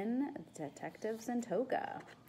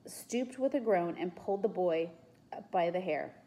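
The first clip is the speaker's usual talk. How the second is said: measured read-aloud storytelling; story narration. A narrator's reading. Reader telling children of the soothsayer at work, story narration. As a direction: narrate the scene clearly.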